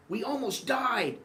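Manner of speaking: very high dramatic wail; mock hysterical mother. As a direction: insist you nearly died. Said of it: "And she's like".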